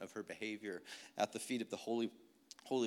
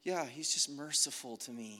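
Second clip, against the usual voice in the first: casual dismissive; 3 semitones higher than usual. Pretend. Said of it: "we cheapen it because it's like".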